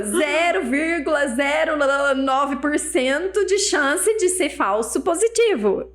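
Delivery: slow, drawn-out reading from the leaflet; insistência imitada. Retold or imitated. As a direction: stretch out each figure to argue the point. Marido lê a bula, insistindo. (lendo devagar, insistindo)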